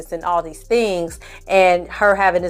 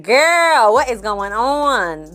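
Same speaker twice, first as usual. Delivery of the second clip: high, drawn-out imitation of disbelief; mock-baffled, stretching out the question; bewildered exclamation; 3 semitones higher, much slower than usual. Daughter reacting to the bathroom standoff, bewildered.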